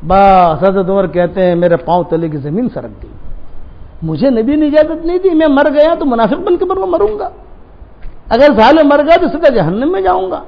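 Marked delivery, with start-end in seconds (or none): 1.6-10.4 shaken, anguished lament; refused companion in anguish; despair. Retold or imitated. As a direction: pour out helpless distress. Umar's despair when refused.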